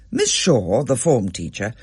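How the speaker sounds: ordinary delivery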